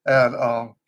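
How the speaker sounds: drained, hoarse and low; weak tired voice. Real, not acted. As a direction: sound worn out and weak. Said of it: "I'm about to lose my voice".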